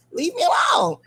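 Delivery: playful shout. Real, not acted. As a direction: shout it off with a laugh. Playful protest at being called ghetto.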